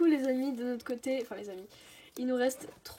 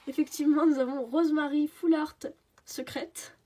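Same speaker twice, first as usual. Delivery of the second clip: excited; 3 semitones higher, 5 dB louder than usual. Real, not acted. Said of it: "Sans l'accent anglais".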